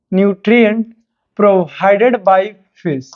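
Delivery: very slow, spaced dictation; dictation pace. Acted. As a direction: draw out each word for writing. Dictates the question. (बहुत धीमी गति से लिखवाना)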